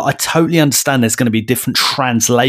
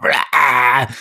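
mock witch scream.

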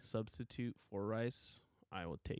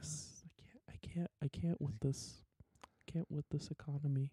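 whispering; 3 semitones higher, 6 dB quieter than usual. Pretend. Mock exasperation whispered.

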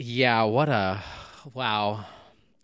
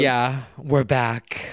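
whispering; much slower than usual. Real, not acted. Whispered welcome back on podcast.

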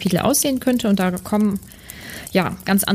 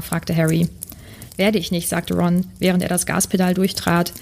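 steady read-aloud storytelling voice; story narration. Acted. Reading a story aloud to podcast listeners, even narration. Reads a Harry Potter chapter aloud.

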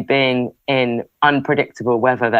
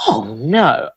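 lightly imitated, drawn-out dismay; mock horror, swooping down on "no"; retelling an old Scottish lady's dismay; horrified old lady; 2 semitones higher than usual. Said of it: "I can't do her accent".

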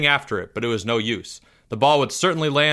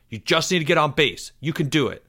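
encouraging; 3 semitones higher than usual. Acted. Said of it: "appreciating the encouragement".

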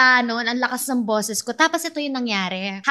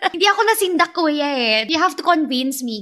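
mock acting coach; 3 semitones higher than usual. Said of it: "What if".

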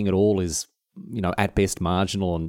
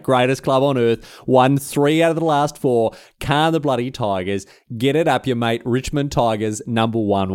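louder, higher ocker brag; boastful Tigers fan; 4 semitones higher, 3 dB louder than usual. Pretend. Richmond supporter gloating to rival fans. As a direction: crow about your club like a one-eyed fan.

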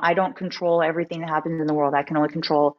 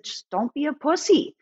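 blunt quote; 8 semitones higher than usual. Retold or imitated. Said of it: "so raw and real and succinct".

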